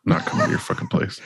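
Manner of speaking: high, breathy mock refusal; mock gruff refusal. Cohost mocking the guest's rude refusal, squeaky mock voice. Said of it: "And he was like".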